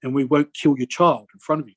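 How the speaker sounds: a hint of a creepy robot in a slowed-down retold threat; creepy robotic voice. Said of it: "he had a real robotic voice as he was talking".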